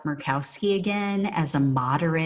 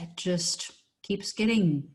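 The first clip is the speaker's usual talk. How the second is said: dry sarcastic praise; 2 semitones higher than usual. Real, not acted. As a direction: say it with heavy sarcasm. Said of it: "I'm being sarcastic".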